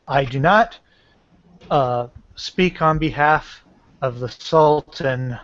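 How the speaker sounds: measured, formal warning to a foe; intimidating. Acted. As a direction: deliver a restrained threat in deliberate phrases. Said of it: "I'm trying to intimidate".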